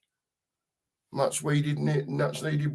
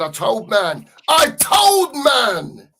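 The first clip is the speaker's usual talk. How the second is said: mock London street accent, far higher and shouted, slow at the end; attempted London street accent; 8 semitones higher, 7 dB louder, slower than usual. Reading out a fan's chat message in a hammed-up London street accent. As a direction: yell it like a London lad gloating, badly. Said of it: "Can't do the accent".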